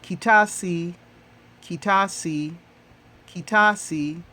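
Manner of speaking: kitasi drilled three times, each syllable crisp; Swahili model word. Shown as a demonstration. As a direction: model kitasi for the class to repeat. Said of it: "How do you say fruit basket in Swahili?".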